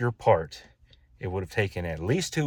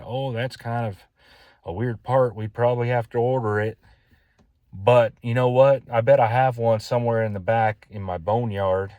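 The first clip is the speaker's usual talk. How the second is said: retold Texas accent, higher and louder, friendly shop owner; 3 semitones higher, 6 dB louder than usual. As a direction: let a Texas accent slip in as you quote the helpful owner. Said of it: "It just came out that way".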